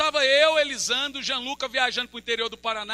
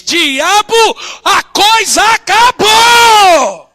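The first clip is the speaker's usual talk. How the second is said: shouted rebuke, slow and louder; commanding shout at the devil; 9 semitones higher, 22 dB louder, much slower than usual. Pretend. Preacher models rebuking the devil, full shout. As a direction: roar it like casting out a demon. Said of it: "bota pra quebrar ... e diz".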